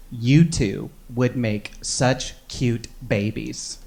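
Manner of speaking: slow, soft creepy purr; a hint of an eerie lady. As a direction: savor each word like a strange old lady. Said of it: "She goes".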